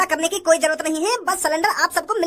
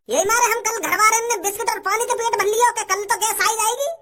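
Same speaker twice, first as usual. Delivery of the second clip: tearful complaint; 3 semitones higher than usual. Acted. Complains of hunger, crying.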